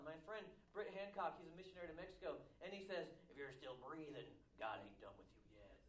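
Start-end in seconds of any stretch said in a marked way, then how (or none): 3.3-5.8 imitating friend's talk. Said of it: "That's how he talks".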